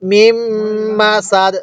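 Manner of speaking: long hummed মিম, then সাদ cut short on d; waqf stop. Shown as a demonstration. Teacher showing the stop, hummed মিম and clipped final d of সাদ. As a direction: hold the m, end crisply on সাদ without "din". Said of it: "কিভাবে শিখব".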